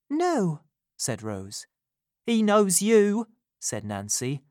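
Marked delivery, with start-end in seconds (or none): 0.1-0.6 Rose answering. A narrator's reading. 2.3-3.3 put-on higher, louder, urgent young woman; Nancy risking her life telling Rose the truth, urgent and louder. A narrator's reading. Nancy warning.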